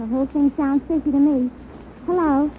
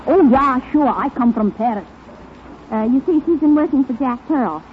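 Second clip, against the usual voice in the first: louder put-on French maid accent; 3 dB louder than usual. Wife calls her maid in a hammed-up French accent, louder. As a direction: play a French maid from Paris, broken and bold. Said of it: "Are you a French maid?".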